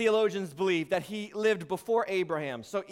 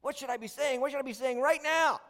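mock bewildered questioning; lightly hammed-up confusion; acted confusion; 4 semitones higher, 3 dB quieter than usual. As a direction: act lost for the right words, building in urgency. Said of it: "You're confused".

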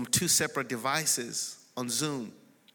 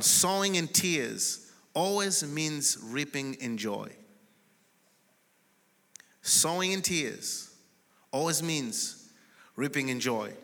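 slow dictation; slower than usual. Real, not acted. Dictating a point to write down.

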